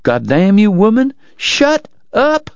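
angry outburst climbing to a high pitch; angry, no courtesy. A narrator's reading. Doc in searing chest pain to Kate, furious. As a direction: lose all courtesy, pitch rising to the last word. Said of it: "He had nothing left for courtesy".

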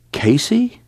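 breathy whispered name. A narrator's reading. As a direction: whisper it in shock. Unvoiced whisper.

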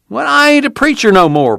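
preacher protesting. A narrator's reading. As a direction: push back, a bit flustered. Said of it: "Casey protested".

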